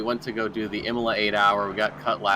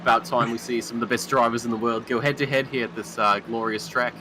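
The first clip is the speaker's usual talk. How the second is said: put-on Australian accent. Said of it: "That was pretty good".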